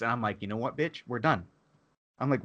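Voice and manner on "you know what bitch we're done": retold anger. Telling off the timeshare saleswoman, quietly angry. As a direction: quietly cut them off, reenacting it. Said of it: "I got pissed".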